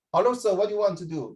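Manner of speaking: lightly voiced Singapore Indian, a bit Singlish; Singapore Indian accent. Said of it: "Singapore Indians were".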